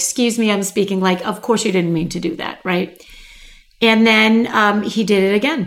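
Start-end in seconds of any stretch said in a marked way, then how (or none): 0.0-1.0 put-on courteous, gracious, super polite tone. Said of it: "Very big smile, super polite".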